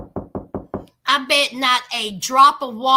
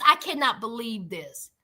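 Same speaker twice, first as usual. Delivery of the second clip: mock outraged rant, rising higher; mother going off; 4 semitones higher than usual. Mother told she will be a grandma, mock outrage. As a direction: imitate an exasperated mother's tirade. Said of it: "And the mother's going off".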